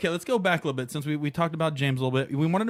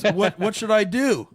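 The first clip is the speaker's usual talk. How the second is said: much higher, louder and slow, a helpless plea; imitating James pleading; 8 semitones higher, 6 dB louder, slower than usual. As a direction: beg for advice like a lost friend. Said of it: "So he goes".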